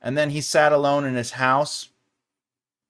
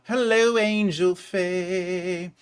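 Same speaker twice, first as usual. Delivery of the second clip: sing-song greeting; 5 semitones higher, much slower than usual. Real, not acted.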